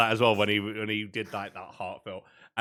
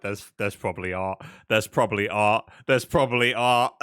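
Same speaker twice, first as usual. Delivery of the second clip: starts low, grows louder each time; building insistence; 3 semitones lower, 4 dB louder than usual. Retold or imitated. Viewer realizing the scene is art, building louder. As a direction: chant it louder and louder.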